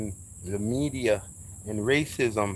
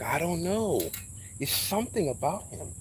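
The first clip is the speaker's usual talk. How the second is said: wary disliker; 5 semitones higher, 4 dB quieter than usual. Retold or imitated. Voicing people who dislike him.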